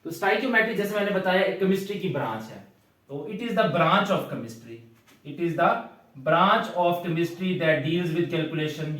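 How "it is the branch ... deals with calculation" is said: very slow, word by word, for copying; teacher dictating a definition to the class; slow dictation. Shown as a demonstration. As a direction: dictate the definition at writing speed. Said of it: "किताब पर लिख लो".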